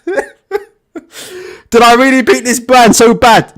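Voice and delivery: slow, laughing through the words; amused, can't believe it; laughing disbelief. Retold or imitated. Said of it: "He's like".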